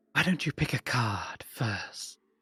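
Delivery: soft, hushed whisper. Narrator voicing her line as it whispers around the listener's head, whispering. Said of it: "her voice kind of like whispering around your head".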